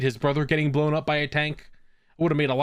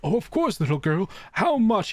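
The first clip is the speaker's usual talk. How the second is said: lightly acted old man, pitched up; mock kindly grandpa; 5 semitones higher than usual. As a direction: play Grandpa indulging a child. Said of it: "He's like".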